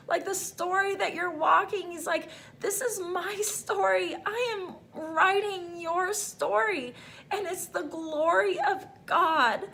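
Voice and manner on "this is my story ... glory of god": choked up. Real, not acted. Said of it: "I'm just getting choked up right now".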